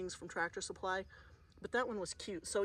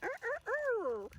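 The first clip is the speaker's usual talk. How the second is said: high strained rooster crowing; hammed-up crowing of a tired old rooster; rooster crow imitation; slower than usual. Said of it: "can you hear that?".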